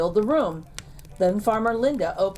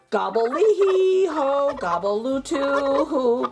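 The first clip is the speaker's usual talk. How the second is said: full gobble; 5 semitones higher, slower than usual. Acted. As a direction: let it all fly out. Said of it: "let it all fly out".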